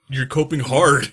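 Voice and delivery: high, loud shouted jeer; hammed-up yell; heated taunt. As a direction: shout it, leaning hard on the last word. Acting out escalating cope taunts.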